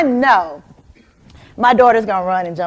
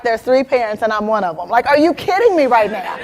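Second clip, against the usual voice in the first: indignant ego; 3 semitones higher than usual. Retold or imitated. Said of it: "My ego is like".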